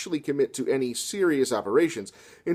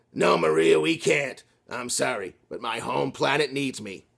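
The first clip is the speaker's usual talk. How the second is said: melodramatic hero; slower than usual. Acted. Robert's dramatic farewell.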